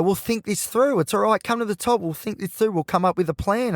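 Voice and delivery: a hint of an eager problem-solver; reassuring overthinker. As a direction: talk someone through it, pitch lifted. Voices his overthinker part.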